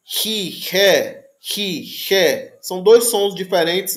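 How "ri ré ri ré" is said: "ri, ré" with the rough sound further forward; front fricative. Shown as a demonstration. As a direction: say "ri, ré" forward in the mouth. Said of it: "um mais aqui na frente".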